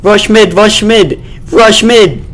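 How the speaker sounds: high, loud team callout; rally the team, urgent; shouting callout. Real, not acted. Calling team to push.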